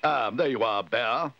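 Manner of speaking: mild exclamation from a put-out man; exclaiming. A narrator's reading. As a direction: exclaim it on spotting someone. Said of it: "exclaimed Mister Curry".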